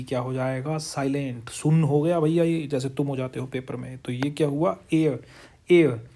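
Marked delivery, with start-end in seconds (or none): 5.7-6.1 एयर said loud and firm; loud drilled word. Shown as a demonstration. Teacher repeating एयर to students, loud. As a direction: hammer एयर home. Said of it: "तो यहाँ पे बोलेगा एन".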